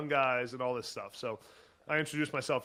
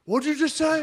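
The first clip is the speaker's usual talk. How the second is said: retold angry shout; 13 semitones higher, 9 dB louder than usual. Coach incensed at back talk.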